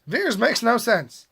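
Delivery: mock outrage, pitch climbing on the complaints; exaggerated, half-joking indignation; mostly sarcastic. Real, not acted. Vlogger ranting about a film's name choice, mostly sarcastic. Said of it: "I'm being mostly sarcastic".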